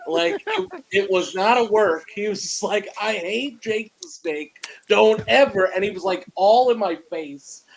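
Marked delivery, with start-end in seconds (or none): 3.0-5.6 a hint of an angry wrestling promo; lightly voiced heated wrestler; mild mock wrestler anger; heated Ric Flair. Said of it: "imagine a heated, every Ric Flair promo".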